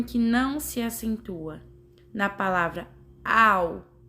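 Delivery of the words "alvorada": syllable by syllable. Shown as a demonstration. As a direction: count out "alvorada" with pauses between syllables. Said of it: "Contou as sílabas daquela forma".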